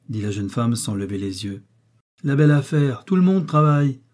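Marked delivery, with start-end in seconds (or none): 2.2-4.0 louder, dismissive snap; scornful retort. A narrator's reading. Housewife scorning her daughter-in-law's work, louder and scornful. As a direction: brush off her excuse with contempt. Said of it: "répliqua la ménagère".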